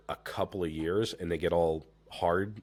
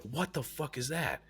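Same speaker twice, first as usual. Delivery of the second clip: surprised; 8 semitones higher, 5 dB quieter than usual. Retold or imitated. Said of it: "I'm like".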